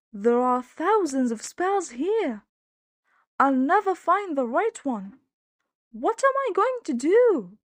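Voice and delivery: high, loud, rising despair; despairing wail. Acted. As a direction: panic at the endless spellbook. Max despairing over spellbook.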